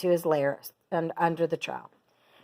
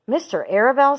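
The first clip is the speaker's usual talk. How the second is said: high, louder sobbing question; a pig sobbing in disbelief; 7 semitones higher, 4 dB louder than usual. A narrator's reading. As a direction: Wilbur sobs at the news. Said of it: "sobbed Wilbur".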